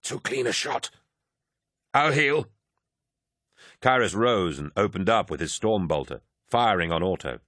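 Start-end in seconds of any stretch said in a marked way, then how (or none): 0.0-2.5 drawling in pain. A narrator's reading. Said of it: "Kyrus drawled, in pain".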